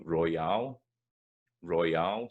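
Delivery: royale with light "roy" and strong rising "ALE"; stress on second syllable. Shown as a demonstration. Teacher showing the stress pattern, royale stressed at the end. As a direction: lean on the end of royale, keeping "oi" clear. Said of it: "the unstressed one is at the start".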